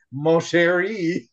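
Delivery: slow, drawn-out French charm; mock suave Gambit flirt; French accent. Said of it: "And he was like".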